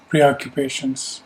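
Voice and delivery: calm, measured meditation guidance; unhurried instructions with long pauses to let them settle; guided meditation. Real, not acted. Teacher settling a group into yoga nidra, calm guided meditation. Leads a seated breathing meditation.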